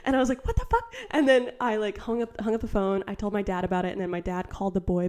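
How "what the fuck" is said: shocked. Retold or imitated. Shocked at caller saying her name.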